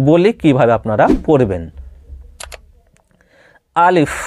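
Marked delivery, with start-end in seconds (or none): 3.7-4.1 "আলিফ" short, without stretching; টান ছাড়া. Shown as a demonstration. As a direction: say "আলিফ" with no drawn-out sounds. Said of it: "এনে টান দেওয়া যাবে না". ("আলিফ" না টেনে ছোট করে)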